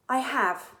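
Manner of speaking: Cassandra beaming about her wish. A narrator's reading. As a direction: say it proudly with a smile. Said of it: "Cassandra beamed".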